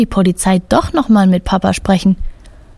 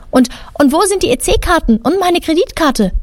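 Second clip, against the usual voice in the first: higher, indignant snapping at the police; angry old lady snapping higher; furious hiss; 8 semitones higher than usual. A narrator's reading. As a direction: snap at the officers in outrage. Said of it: "Erbost faucht die Dame die Polizisten an".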